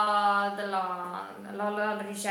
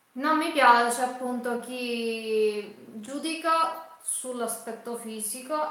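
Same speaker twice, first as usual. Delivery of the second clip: tearful. Real, not acted. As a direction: voice cracking with tears. Emotional speech about judging others.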